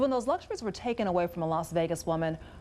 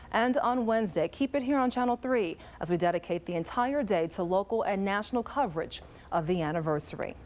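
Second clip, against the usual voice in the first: steady, measured newscast delivery; news anchor read. Acted.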